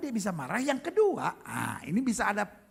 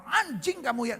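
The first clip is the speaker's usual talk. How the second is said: higher-pitched outburst of comic insult; mock angry; 5 semitones higher than usual. Comic imitating an angry person cursing someone, mock outburst. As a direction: hurl it as a mock curse. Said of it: "kalau marah sama orang".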